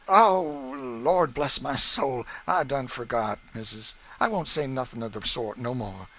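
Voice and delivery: exaggerated sorry servant; Sam apologizing. A narrator's reading. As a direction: promise earnestly, slipping again. Sam's mock apology.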